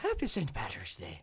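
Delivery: put-on Irish accent. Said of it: "Hey, that was pretty good".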